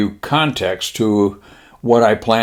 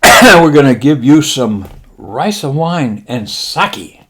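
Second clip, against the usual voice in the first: slow, higher mock-Japanese admiral; 4 semitones higher, 4 dB louder, slower than usual. Admiral promising pilots leave, slow mock-Japanese voice. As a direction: stretch it out in a Japanese accent. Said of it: "He said".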